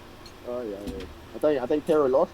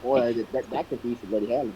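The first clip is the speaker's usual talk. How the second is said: put-on British accent; 6 semitones lower than usual. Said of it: "He's doing an accent".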